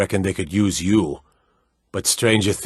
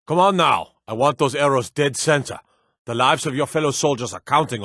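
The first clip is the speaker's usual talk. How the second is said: higher, raised push at the recruits; drill instructor call; 5 semitones higher than usual. Acted. Archery trainer urging his recruits on, higher and raised. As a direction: spur the archers on, sharp and up.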